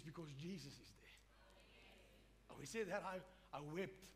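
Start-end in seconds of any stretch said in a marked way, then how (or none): 0.0-2.5 slow, hushed and soft, almost breathless; hushed reverent answer. Retold or imitated. An old preacher answering why, hushed and slow. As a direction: let it fall away softly, in awe.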